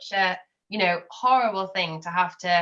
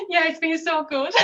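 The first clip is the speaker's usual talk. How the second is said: holding back tears; 8 semitones higher than usual. Real, not acted. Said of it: "Trying not to cry".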